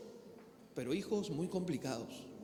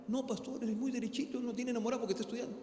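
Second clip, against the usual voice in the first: tearful mother; 4 semitones higher, faster than usual. Retold or imitated. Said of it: "Y llorando así en lágrimas decía".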